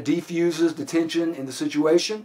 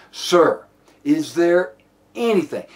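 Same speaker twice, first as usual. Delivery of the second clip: "anything" set off by a pause and pitched up; stress on ANYTHING; 2 semitones higher, slower than usual. Shown as a demonstration. Officer pleading with suspect, stress on "anything". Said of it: "I put the inflection on the word anything".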